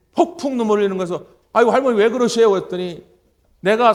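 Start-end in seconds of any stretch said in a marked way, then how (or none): 1.5-2.5 alarmed concern. Retold or imitated. Pastor sees grandmother weeping.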